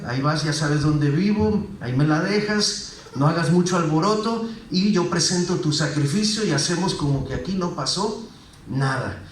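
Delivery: lightly voiced shady official; a hint of under-the-table dealing; corrupt pastor. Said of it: "yo como pastor corrupto le decía".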